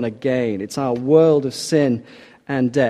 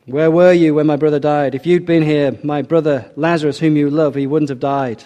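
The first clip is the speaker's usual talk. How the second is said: louder, raised voice in grieving accusation; anguished reproach; 2 semitones higher, 6 dB louder than usual. Acted. Mary confronting Jesus over her dead brother, raised anguished reproach. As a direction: throw the question at him in grief.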